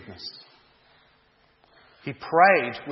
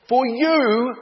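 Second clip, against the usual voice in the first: put-on much higher and louder, an old man calling after his son; desperate pleading cry; 11 semitones higher, 8 dB louder than usual. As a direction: cry out after a fleeing son, begging him to stop. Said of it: "cried John".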